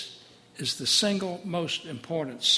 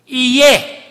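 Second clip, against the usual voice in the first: high, loud otherworldly call; God answering Moses; divine voice; 9 semitones higher, 14 dB louder than usual. Acted. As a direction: ring it out like the voice of God. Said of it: "answers God".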